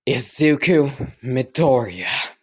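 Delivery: slow, deliberate call of Izuku Midoriya after a deep breath; the third call, Izuku Midoriya said firmly; firm summons. Acted. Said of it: "she would take a deep breath and go".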